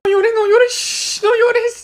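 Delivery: urgent, anxious shushing; panicked hushing. Acted. Boy shushing baby who fell, panicked. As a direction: hush the baby in a mild panic.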